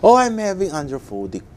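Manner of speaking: high-pitched announcement called out to staff; mock shout. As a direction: call it out high and fast, then drop on the last word. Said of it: "I shouted to the".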